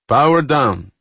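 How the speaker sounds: loud, high-pitched order; commanding. A narrator's reading. Dubinin ends the speed run, commanding. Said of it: "Dubinin commanded".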